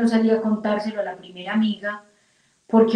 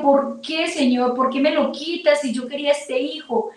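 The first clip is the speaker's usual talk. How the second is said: higher-pitched, anguished questioning; reproachful plea; 5 semitones higher than usual. Retold or imitated. Grieving mother asking God about her lost baby, reproachful plea. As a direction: retell a pained complaint to God. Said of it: "Empecé a reclamarle al Señor".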